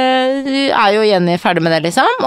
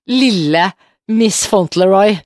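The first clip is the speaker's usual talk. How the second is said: slow, drawn-out mock English; mock posh teasing; slower than usual. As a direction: tease her with a slow, lofty sneer. Mock insult to friend.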